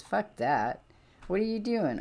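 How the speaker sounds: ordinary talk, nothing marked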